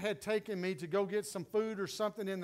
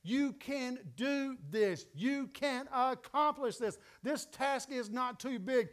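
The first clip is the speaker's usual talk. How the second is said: gentle encouragement; 3 semitones higher, slower than usual. Retold or imitated. Daughter speaking calm encouragement over her dad. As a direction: reassure a tired dad gently. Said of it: "she began to speak over me".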